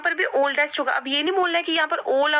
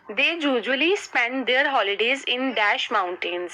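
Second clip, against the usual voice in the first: slow dictation; much slower than usual. Shown as a demonstration. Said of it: "reading exercise sentence slowly".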